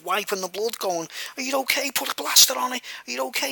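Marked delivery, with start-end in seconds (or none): 1.4-3.5 imitating caring concern. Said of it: "And, like, proper caring".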